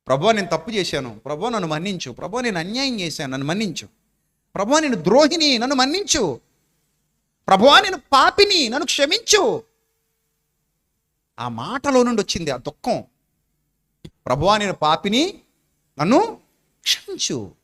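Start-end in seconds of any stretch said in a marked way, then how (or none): 0.1-9.6 a sinful woman begging forgiveness, building to a cry; pleading penitent prayer. Acted. Woman's tearful prayer voiced. 14.1-17.5 pleading penitent prayer. Acted. Woman's prayer voiced again.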